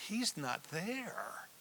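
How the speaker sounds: slow, hushed whisper. Shown as a demonstration. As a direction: drop to a grave whisper. Solemn key point, whispered.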